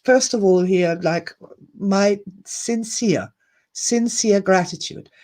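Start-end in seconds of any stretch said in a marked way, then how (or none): 1.8-5.1 emotional thanks. Real, not acted. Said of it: "getting all emotional here".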